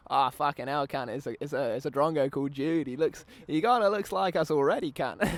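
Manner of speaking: put-on casual Aussie bloke accent; mock Aussie accent. Aussie accent for a mate on the telly. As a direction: drop into a lazy Aussie twang. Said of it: "I don't like to do this publicly".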